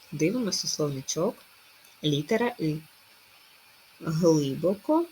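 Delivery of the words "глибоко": Глибоко said very slowly, syllable by syllable. Shown as a demonstration. Teacher reading the word Глибоко slowly. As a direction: spell Глибоко out slowly for the class. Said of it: "Наголошується".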